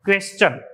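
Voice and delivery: क्वेश्चन said cleanly, kwes-chun; correct pronunciation. Shown as a demonstration. Teacher giving students the correct word question, cleanly. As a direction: model the right क्वेश्चन once, clearly. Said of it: "इसका right pronunciation होता है".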